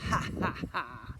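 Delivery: read-out ha-ha laugh; mock chuckle. A narrator's reading. Boy's turn to do the chuckling, acted chuckle. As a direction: fake a chuckle in spaced ha's. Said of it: "do the chuckling".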